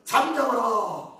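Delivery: drawn-out mild rebuke; rebuking. Acted. Those walking ahead silence the beggar, rebuking. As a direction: hush him with a slow, stretched command. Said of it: "그를 꾸짖어".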